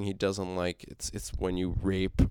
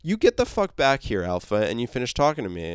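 mock angry demand; 2 semitones higher, 4 dB louder than usual. Negan ordering Alpha back, angry yell. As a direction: call her back with fury. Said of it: "he's like".

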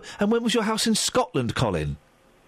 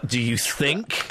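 drawn-out questioning; 4 semitones lower, much slower than usual. Real, not acted. Doubts caller's definition, repeats it drawn out.

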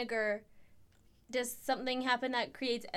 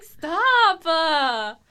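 louder retold shout; mock yell; 4 semitones higher, 13 dB louder than usual. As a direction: shout it like a kid fighting mom. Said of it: "I'm like".

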